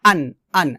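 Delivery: "আন" with easy plain glottal start; unpressed vowel opening "আন"; normal hamza. Shown as a demonstration. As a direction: say "আন" simply from the throat. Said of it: "সাধারণভাবে".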